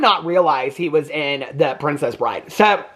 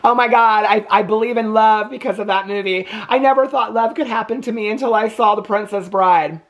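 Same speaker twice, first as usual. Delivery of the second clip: gushing fan; 4 semitones higher than usual. Retold or imitated. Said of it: "People are like".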